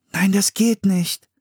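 high, slowed, firm no; firm interruption. A narrator's reading. Anne interrupts her brother, high and firm. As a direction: stop him mid-sentence. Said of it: "unterbrach Anne".

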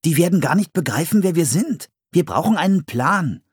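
put-on high, urgent child's voice; child character. A narrator's reading. Child urging the other to make a plan, high and urgent. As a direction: pitch it up high and lively like a worried child.

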